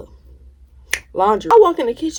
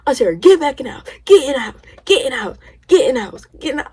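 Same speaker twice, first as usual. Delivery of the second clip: urgent pleading; 5 semitones higher, faster than usual. Retold or imitated. Little brother pleading with his auntie to come home, urgent. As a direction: beg her to come back inside.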